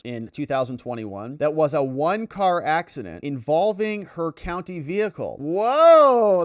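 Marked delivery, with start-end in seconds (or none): 5.4-6.4 loud, high drawn-out whoa; surprised. Real, not acted. Host reacting to news of a car accident, surprised. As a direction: react big, swooping up in surprise.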